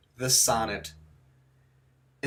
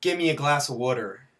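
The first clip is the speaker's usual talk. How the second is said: put-on Baltimore accent; 3 dB louder, faster than usual. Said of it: "if you're from Baltimore".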